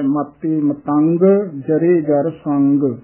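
slow ਮਤੰਗ, finishing on audible G; sounded final G. Shown as a demonstration. Teacher models the verse slowly, G sounded in ਮਤੰਗ. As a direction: release the G in ਮਤੰਗ and ਸੰਗ. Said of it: "ਗੱਗਾ ਉਚਾਰਨ ਕਰਨਾ ਹੈ".

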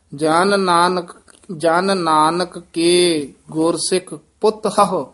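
careful phrasing, "ਪੁੱਤ ਹਹੁ" in two parts; dash-like break. Shown as a demonstration. Teacher models the verse, a small break between ਪੁੱਤ and ਹਹੁ. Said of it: "ਵਿੱਚ ਇੱਕ dash ਜੀ ਦੇ ਕੇ ਬੋਲਣਾ".

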